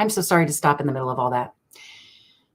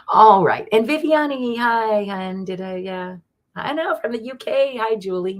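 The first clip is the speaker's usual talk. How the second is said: excited greeting; 7 semitones higher, 6 dB louder than usual. Real, not acted.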